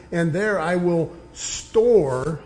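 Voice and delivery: slow, leaning on store; stress on store. Shown as a demonstration. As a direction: draw out the word store so it sticks. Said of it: "underline that word".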